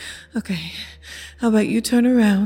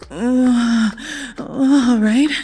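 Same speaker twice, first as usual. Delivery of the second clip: aroused exclamation; 3 semitones higher, much slower than usual. Acted. Teasing partner, rising arousal.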